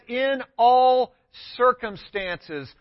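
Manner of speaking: "all" lifted, then "circumstances." slowed right down; the true wording, "all" held up high; stress on all. Shown as a demonstration. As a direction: lean on "all" and draw out "circumstances.". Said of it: "It says".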